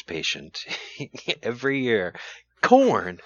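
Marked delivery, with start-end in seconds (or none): 2.6-3.2 imitating Lewis Black. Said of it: "Lewis Black's old thing".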